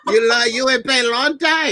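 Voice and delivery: laughing mock accent. Friend repeating the nurse joke, laughing in a put-on accent. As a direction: crack up while doing the accent. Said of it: "she had her accent going on".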